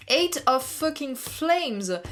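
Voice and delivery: Eight of fucking flames drawn out slowly; card name savoured slowly; stress on Eight. Shown as a demonstration. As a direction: lean hard on Eight, slowly. Reads card name emphatically.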